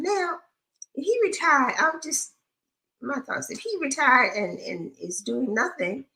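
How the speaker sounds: high, emphatic point-making; animated. Real, not acted. Animated opinion, pitch raised.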